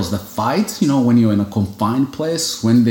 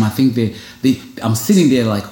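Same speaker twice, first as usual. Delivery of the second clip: ordinary talk, nothing marked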